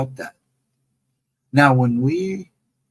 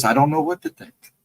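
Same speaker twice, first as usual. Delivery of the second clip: much higher mock voice; mimicking the lady; 3 dB louder than usual. Host imitating the store lady, high mock voice. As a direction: squeak it out as the lady. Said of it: "She goes".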